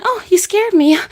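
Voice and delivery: high, loud pretend fright; mock startled. Imitating a woman approached by a scary guy, mock startled. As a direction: yelp it as a hammed-up startle. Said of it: "There's no need to be startled".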